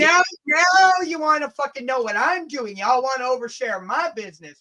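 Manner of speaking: playful shouting protest; indignant shout. Real, not acted. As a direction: shout it back at her, half joking. Mock outrage at nosy friend.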